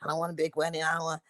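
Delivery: soft, offhand retelling of his indifference; nonchalant. Retold or imitated. Husband waving away a big wedding, nonchalant. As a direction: shrug it off quietly. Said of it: "he was nonchalant".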